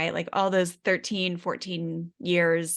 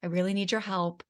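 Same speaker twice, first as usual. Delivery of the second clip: calm redo; 3 dB quieter than usual. Retold or imitated. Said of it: "the redo was like".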